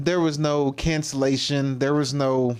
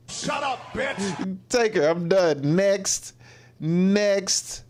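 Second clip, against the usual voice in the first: higher, hammed-up brush-off of her; mock dismissive wrestler; 7 semitones higher, much slower than usual. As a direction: play a bored tough guy tossing her aside. Voicing Blackman dismissing her.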